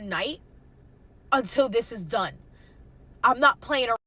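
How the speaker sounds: firm, stubborn refusal; retold defiance. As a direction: dig in and refuse to budge. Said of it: "And I'm like".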